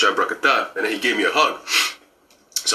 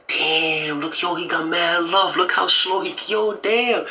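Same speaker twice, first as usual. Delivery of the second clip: 1 amazed; 7 semitones higher, slower than usual. Retold or imitated. Retelling his own amazed reaction.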